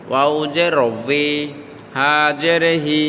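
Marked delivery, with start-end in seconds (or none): 0.1-1.3 'উই' gliding from rounded lips; correct W sound. Shown as a demonstration. Teacher repeats the correction, 'উই' with a rounded w. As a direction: keep 'উই' a w, never b. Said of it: "এভাবে উচ্চারণ হবে".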